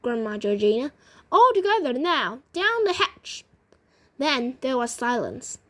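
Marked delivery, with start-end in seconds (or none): 1.3-3.4 high, sing-out call to the group; rally everyone in a raised storybook voice; acted toast, climbing higher. A narrator's reading. Rallying everyone to swallow pills.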